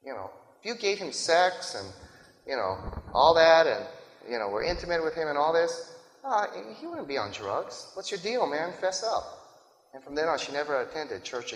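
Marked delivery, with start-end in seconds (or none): 0.0-9.3 blaming pastor. Acted. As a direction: lightly act out a pastor laying the blame on a wife. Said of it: "the pastor said".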